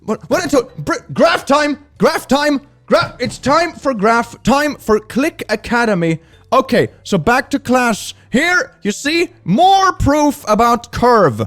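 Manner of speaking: very high, loud, slow possessed teacher voice; corrupted voice. Acted. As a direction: shriek graph time like a possessed teacher. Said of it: "corrupted by some sort of demon".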